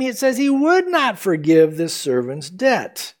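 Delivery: slow, with "would" drawn out; stress on WOULD. Shown as a demonstration. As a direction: weigh "would" heavily. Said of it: "Notice, though".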